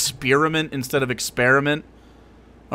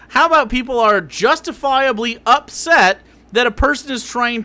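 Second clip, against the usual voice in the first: exasperated rant; 4 semitones higher than usual. Real, not acted. Streamer rebutting a clip, heated rant. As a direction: push back, getting heated. Ranting at the triggered label.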